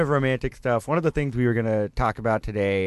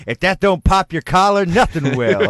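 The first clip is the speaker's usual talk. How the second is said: put-on old-timey slang voice; 5 semitones higher, 4 dB louder than usual.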